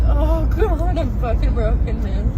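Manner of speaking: real tears spilling through the words; crying. Real, not acted. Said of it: "Oh, I can't stop crying".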